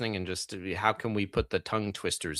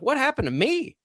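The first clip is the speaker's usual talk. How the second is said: mock dismay. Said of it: "and I'm like".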